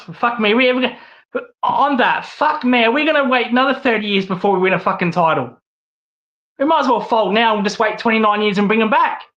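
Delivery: venting frustration at the team, pitch up; emotional rant. Real, not acted. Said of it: "maybe I'm a little bit emotional after today".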